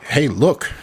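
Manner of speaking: high, excited cosmonaut voice; mock Soviet cosmonaut. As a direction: call it out like a cosmonaut landing.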